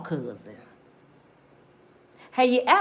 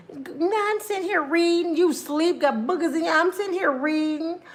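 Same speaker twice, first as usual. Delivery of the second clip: woman voice; 6 semitones higher than usual. Retold or imitated. Woman voiced pretending she's awake.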